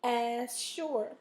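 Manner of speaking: "Assure" with weight on SURE; teacher showing the stress in as-SURE; stress on second syllable. Shown as a demonstration. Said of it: "where is the stress? Second syllable".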